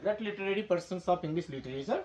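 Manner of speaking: very slow English phrase; slow dictation. Shown as a demonstration. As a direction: dictate each word slowly. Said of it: "English साहित्य का सबसे बड़ा साहित्यकार". (धीमी गति से अंग्रेज़ी वाक्यांश)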